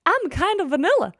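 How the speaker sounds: high, self-deprecating musing; lightly voiced inner thought; mock-dull inner voice. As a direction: voice the thought that you are boring. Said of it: "hvor jeg sådan tænkte".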